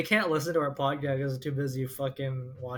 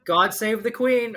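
mock British; 7 semitones higher, 6 dB louder than usual. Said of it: "or something".

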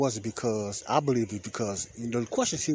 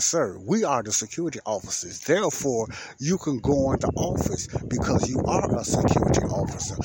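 louder, emphatic spelling-it-out delivery; exaggerated explanation; 3 semitones higher, 4 dB louder than usual. Explaining to a confused fellow security officer, exaggerated emphasis. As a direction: overdo it, stressing each point to the listener. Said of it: "I didn't say it all the way like that".

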